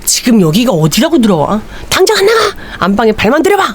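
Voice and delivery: a sudden high shouted order; retold wife furious at the intruding husband; angry yell. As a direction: throw him out of the room.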